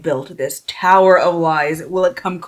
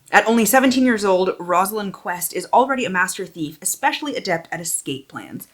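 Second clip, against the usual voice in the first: lifted, animated back-cover reading; expressive book-jacket narration; dramatic blurb read; 3 semitones higher than usual. Real, not acted. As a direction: read the blurb out with storyteller emphasis.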